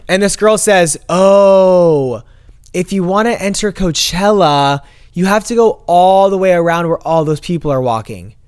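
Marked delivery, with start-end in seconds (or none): 1.1-8.3 imitated gate attendant. Imitating gate girl giving long directions.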